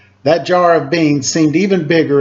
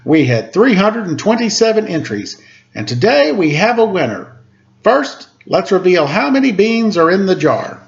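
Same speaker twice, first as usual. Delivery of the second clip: announcing; 5 semitones higher than usual. Acted. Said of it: "Mister Kaplan announced".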